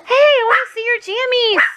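put-on high, fast doggy baby talk; baby talk to pet. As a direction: coo at the dog like a baby. Dad baby-talks to dog.

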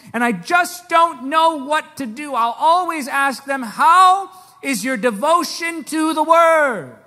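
loud, driving sermon delivery; fiery preaching. Acted. Pastor exhorting the congregation, loud and fervent. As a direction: preach it to the back row.

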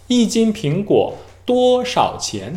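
一斤苹果多少钱 very slow, every tone fully sounded; stiff, over-precise tones; Korean learner's careful tones. Shown as a demonstration. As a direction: read 一斤苹果多少钱 syllable by syllable like a textbook. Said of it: "这就是韩国人的说法".

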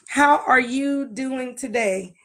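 slow, evenly spaced greeting; slow and deliberate. Real, not acted. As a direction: take the greeting word by word, slowly. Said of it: "I gotta say it slow".

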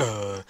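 put-on low groan like an old man. Gamer shows how he moves instead of sprinting, old-man groan. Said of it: "like an old man".

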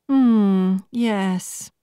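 a light voicing of an upbeat recruiter; perky young businesswoman. A narrator's reading. Laura telling Marta her scores, perky and high.

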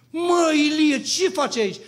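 loud, high call of surprise; surprised greeting. Retold or imitated. A church brother calls out to Ilie at the gate, loud and high. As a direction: hail a friend you didn't expect to see.

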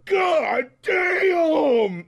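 big hammed-up high shout of god damn; mock yell. Podcaster mocking the rapper's ad-lib, exaggerated high yell. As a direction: yell it like the rapper cracking himself up. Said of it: "And afterwards he goes".

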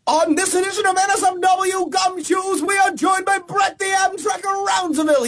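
hammy noir detective announcer; gumshoe voice. Acted. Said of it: "do it in the gumshoe voice".

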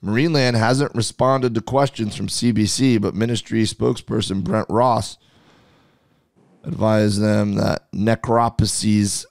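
measured news article read; article read aloud. Real, not acted. Cohost reads news of deaths at Marineland, reading aloud.

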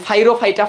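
ফাইরোফাইটা as "fai-ro-fai-ta"; altered pronunciation. Shown as a demonstration. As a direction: say ফাইরোফাইটা with an F sound at the start. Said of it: "মানে এইভাবে উচ্চারণ করি".

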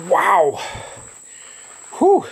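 pained talk through pepper burn; hurting mouth, breathing out heat; mouth burning from spicy food. Real, not acted. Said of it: "I am spitting constantly".

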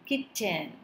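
"kitten" split as kit, ten; two separate beats on "kitten"; syllable by syllable. Shown as a demonstration. Teacher dividing the word, "kitten" in two chunks. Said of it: "dividing the word into two syllables".

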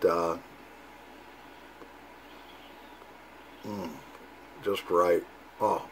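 talking around pipe stem; pipe in mouth. Real, not acted. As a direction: lips gripping pipe. Seen 1: Pipe stem held between lips throughout the labelled words, smoke visible.

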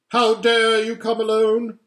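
high, loud furious queen; terrible voice. Acted. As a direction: blast him with icy rage. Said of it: "said the witch in a terrible voice".

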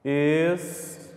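"Espantados" as es, pan, ta, dos, with gaps; sílaba por sílaba. Shown as a demonstration. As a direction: isolate each syllable of "Espantados". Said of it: "Já fiz a separação aqui, ó, só em falar". ("Espantados" pausado, es, pan, ta, dos)

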